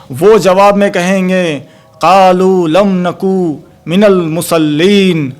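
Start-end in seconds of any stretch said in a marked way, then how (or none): 2.0-5.3 Arabic verse drawn out very slowly; slow recitation. Acted. Quoting Quranic Arabic verse. (अरबी आयत बहुत धीमे तिलावत के अंदाज़ में)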